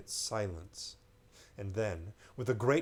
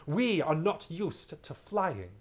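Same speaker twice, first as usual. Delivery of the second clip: stranger voice; 6 semitones higher, 4 dB louder, slower than usual. Acted. Stranger's voice in read story.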